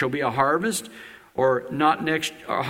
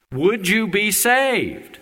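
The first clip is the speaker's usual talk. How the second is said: slow earnest question; 4 semitones higher, much slower than usual. Real, not acted. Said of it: "That's the question".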